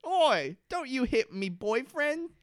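high, drawn-out mock scolding; slow, high-voiced protest; Charlotte impression. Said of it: "Charlotte's one thing for this episode".

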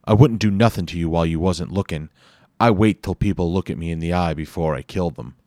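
fast, loud New York thug; Bomberhead's raspy New York voice. Acted. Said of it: "he said in a raspy voice".

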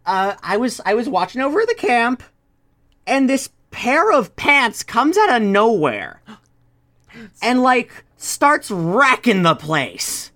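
kobold Larry. Acted. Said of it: "And Larry goes".

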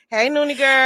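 high sing-song granny greeting; sweet old lady. Acted.

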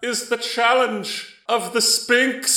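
high, loud booming voice from the sky; magically amplified voice. Acted. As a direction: boom it out like a god overhead. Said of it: "a booming voice comes down from the sky".

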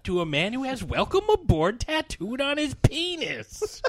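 gruff quoted movie line, slowing at the end; Bruce Dern impression. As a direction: deliver it like a grumpy admiral. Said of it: "Bruce Dern delivering that line".

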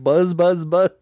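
cicada buzz. Retold or imitated. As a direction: buzz like a cicada, trying harder. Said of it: "Do it better".

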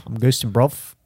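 put-on copycat British street accent; mock London roadman; playful put-on urban British; ghetto British. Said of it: "ghetto British one".

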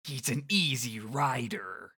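slow, gravelly tough-guy growl. Retold or imitated. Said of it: "it's just gravel voice".

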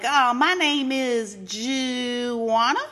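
slow, lightly voiced Jamal improvising a name; hesitant drag character. Host imitating Jamal naming himself, slow and hesitant. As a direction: drag it out like you're inventing it. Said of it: "so he's like".

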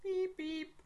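beeping like a robot. Acted. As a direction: mechanical robot beeps. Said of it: "It's robot voice".

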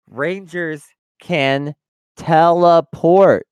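Rangers can... teleport, slow, with teleport loud; stress on teleport. Shown as a demonstration. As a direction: slowly punch out "teleport". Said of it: "I just wanna emphasize".

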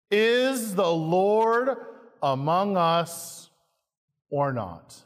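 slow, drawn-out complaining question; whining people. Acted. Preacher voicing the grumbling people, slow and whining. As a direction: whine it like doubting Israelites.

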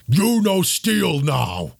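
a slow, simple-spoken brute; slow caveman-style warning; barbarian brute. Acted. Barbarian sister warning the wizard, in a slow brute voice.

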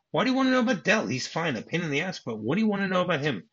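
high, exasperated questioning; mock defensive exasperation. Husband questioned by his wife about Dell, defensive.

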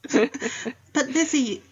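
high, slow, drawn-out disbelief; astonished sister. Retold or imitated. Jane questioning Lizzie about Darcy, high astonished drawl. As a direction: stretch it out in shocked disbelief.

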